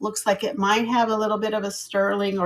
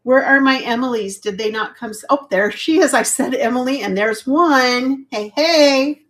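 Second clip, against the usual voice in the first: excited greeting; 3 semitones higher, 6 dB louder than usual. Real, not acted. Greeting a viewer joining live.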